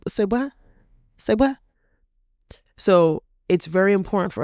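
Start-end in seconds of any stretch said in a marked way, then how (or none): 0.1-0.5 high rising "Say what?" in disbelief; incredulous. Real, not acted. Speaker to her audience, questioning a harmful belief, incredulous. 1.2-1.6 higher, louder "Say what?", really pushed; louder disbelief. Real, not acted. Speaker to her audience, repeating the question, louder disbelief.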